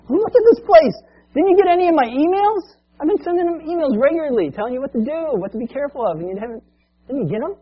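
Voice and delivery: high, loud, outraged demand; exasperated boss. Retold or imitated. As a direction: boss losing his temper at the mess. Owner confronts idle employee.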